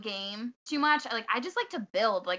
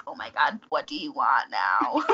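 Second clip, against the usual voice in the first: exasperated; 9 semitones lower, 4 dB louder than usual. Retold or imitated. Annoyed sister answering little brother.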